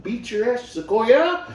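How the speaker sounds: loud, high mock yell; retold threat. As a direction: bark the threat like a pissed-off guy. Angry dude's retold threat.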